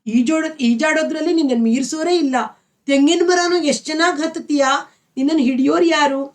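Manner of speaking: put-on a young girl marvelling at her friend, picking up speed; ಮುಗ್ಧ ಮೆಚ್ಚುಗೆಯ ದನಿ; innocent admiration. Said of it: "ಅವಳ ಮಾತಿನಲ್ಲಿ ಮುಗ್ಧ ಮೆಚ್ಚುಗೆ ತುಂಬಿತ್ತು".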